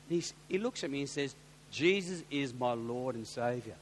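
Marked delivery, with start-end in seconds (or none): 1.7-3.8 slow, low, hint of a German accent; imitated German accent. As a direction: quote a German man slowly and solemnly. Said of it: "thick German accent".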